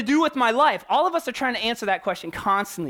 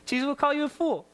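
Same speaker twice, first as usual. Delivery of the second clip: softer, chuckling as he repeats it; laughing through it; 5 semitones higher, 3 dB quieter, faster than usual. Real, not acted. Preacher laughing while repeating Jesus's harsh word. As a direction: let a laugh spill into the words.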